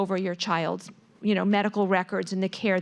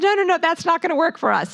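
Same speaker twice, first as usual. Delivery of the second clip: higher, louder, fast firm no; emphatic refusal; 8 semitones higher, 5 dB louder, much faster than usual. Retold or imitated. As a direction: shut the offer down quickly. Refusing a late doctor appointment.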